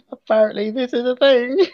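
high, loud, laughing through the words. Real, not acted. Reading silly place names to a co-host, cracking up. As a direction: squeal it out while cracking up.

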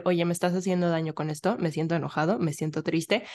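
calm, reassuring demonstration; calm telling. Shown as a demonstration. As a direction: say hard feelings gently and evenly. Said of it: "de una forma calmada".

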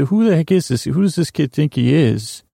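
exasperated teacher. Retold or imitated. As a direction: lightly voice a teacher fed up with a kid. Voicing exasperated music teacher's reaction.

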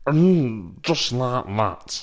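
hammed-up squeaky comic voice; Tommy Cooper impression. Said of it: "Is it this Gary Hooper or Tommy Cooper?".

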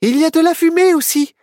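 fast, high, relieved; reassuring herself. Acted. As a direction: comfort yourself aloud. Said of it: "se rassura Myrtille". (Myrtille rassurée)

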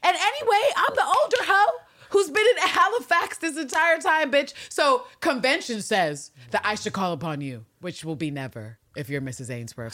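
high, sassy mock voice; sassy Anne Lister. Anne telling Ann Walker off, high sassy mock voice. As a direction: give it the diva sneer, high up. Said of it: "She was like".

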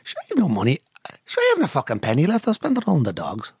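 another go at a Derry accent; attempted Derry accent. Shown as a demonstration. Hector auditioning after the cue of action, attempted Derry accent. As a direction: perform the line in Derry dialect. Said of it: "say in a Derry accent".

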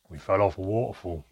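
lightly gruff, matter-of-fact reply; curt, slightly rough character voice. A narrator's reading. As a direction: answer bluntly in a rough voice. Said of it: "in his usual gruff voice".

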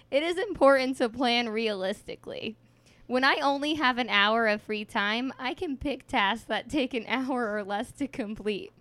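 reading while fighting back giggles; holding in laughter mid-sentence; stifled giggles. Real, not acted. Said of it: "I'm, like, crying".

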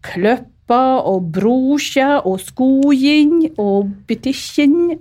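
slow, high Tresfjord dialect words; father-in-law rattling off words in broad Tresfjord dialect. Retold or imitated. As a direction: sound out the words like a Tresfjord farmer. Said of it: "svigerfar og sier".

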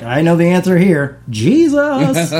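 put-on eager kid. Kid eagerly answering the woman.

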